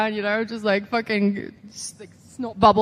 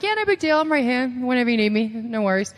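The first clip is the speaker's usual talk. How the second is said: faking nonchalance; 3 semitones higher than usual. Retold or imitated. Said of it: "trying to act cool".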